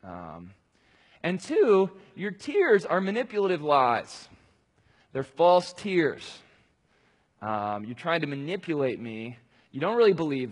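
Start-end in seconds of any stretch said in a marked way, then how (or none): 0.0-4.3 loud, stern declaration as God; God rebuking his people loudly; voicing God, raised. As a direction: proclaim it forcefully as God. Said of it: "And so he says".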